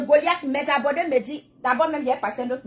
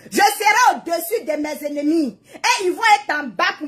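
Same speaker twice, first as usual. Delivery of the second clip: triumphant shout; 3 semitones higher than usual. Real, not acted. Declaring Bible promise over enemies.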